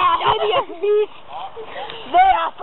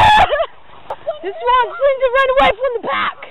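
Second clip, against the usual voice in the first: slow excited shout; 6 semitones higher, 5 dB louder, slower than usual. Pretend. Live commentary on runaway dog.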